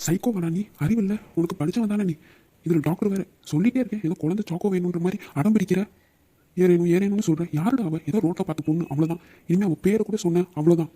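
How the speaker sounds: mildly angry telling-off; exasperated scolding. Acted. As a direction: scold a stubborn friend to his senses. Friend scolds lovesick roommate. (எரிச்சலோடு திட்டுதல்)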